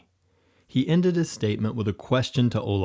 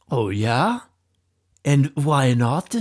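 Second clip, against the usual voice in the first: higher, loud, slow defiant challenge; angry yell; 4 semitones higher, 6 dB louder, slower than usual. A narrator's reading. Leader yelling back at Olaf, angry. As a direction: hurl the question back at him. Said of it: "yelled the angry leader".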